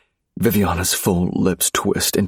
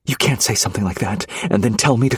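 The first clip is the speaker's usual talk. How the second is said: fast, higher angry outburst; cries out; 5 semitones higher, faster than usual. Acted. Wife crying out at husband's insult, fast angry outburst. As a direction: throw the words back at him, fast. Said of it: "she cries out".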